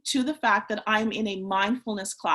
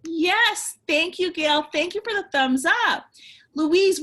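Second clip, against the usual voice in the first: high, loud and thrilled; excited; 4 semitones higher, 4 dB louder than usual. Real, not acted. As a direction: praise the class with delight. Thrilled by the participants' answers.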